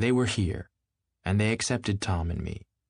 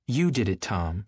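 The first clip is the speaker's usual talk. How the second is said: accusing. Acted. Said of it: "she said accusingly".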